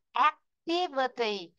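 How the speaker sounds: "Activity" slow, stress on "tiv", rise then fall on "verity"; stress on second syllable. Shown as a demonstration. Teacher drilling the class on word stress, slow and stressed. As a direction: say "Activity" slowly, "tiv" strong. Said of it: "tí là cố lên, verity là cố xuống".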